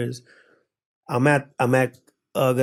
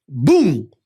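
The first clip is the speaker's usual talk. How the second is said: loud, sudden "boom"; imitated punch impact; 5 dB louder than usual. Telling how he punched the man, imitated impact. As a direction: punch out the sound effect.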